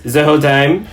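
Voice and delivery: lightly put-on French accent. Shown as a demonstration. DM showing how the bartender Goo spoke, French accent. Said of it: "he spoke in a French accent".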